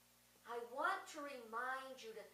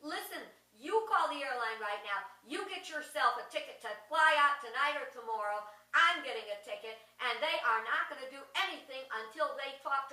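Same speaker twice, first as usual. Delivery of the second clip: commanding; 5 dB louder than usual. Retold or imitated. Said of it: "she said".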